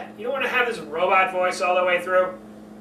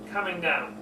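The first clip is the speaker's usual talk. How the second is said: coming down; 2 semitones lower, 5 dB quieter than usual. Shown as a demonstration. Coach demonstrating the voice coming down. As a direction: let it fall away.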